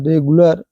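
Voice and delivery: रेगुलर, last vowel a short अ; अ sound in ending. Shown as a demonstration. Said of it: "अ निकलना चाहिए".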